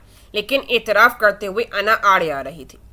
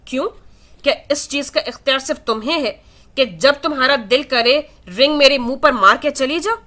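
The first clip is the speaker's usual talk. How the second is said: higher, mocking sarcasm; sneering, raised-pitch taunt; sarcastic; 4 semitones higher than usual. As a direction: throw her words back with scorn. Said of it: "حدید طنزیہ انداز میں بولا".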